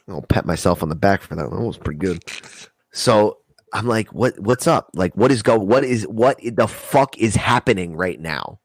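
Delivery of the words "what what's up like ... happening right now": slow confused asking. Retold or imitated. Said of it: "I asked her exactly like that".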